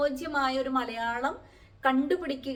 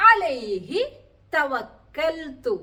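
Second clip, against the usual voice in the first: slow recitation; 2 semitones higher, 3 dB louder, much slower than usual. Shown as a demonstration. Teacher recites Quranic word.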